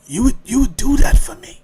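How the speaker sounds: imitating a surprised neighbour; mildly incredulous. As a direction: ask it high, as if touched and surprised. Acts out surprised sick neighbor.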